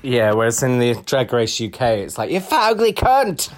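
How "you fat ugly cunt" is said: hammed-up high-pitched tirade; mock outraged yell; mock insult. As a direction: hurl it like a reality-show catfight. Voices insults from Drag Race UK.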